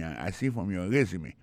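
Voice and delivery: "resume" said REZ-oo-may, accent on the first syllable; teacher's model of "resume", first syllable stressed. Shown as a demonstration. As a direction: lean on RE at the start of "resume". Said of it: "Accent tombé sur le premier syllabe".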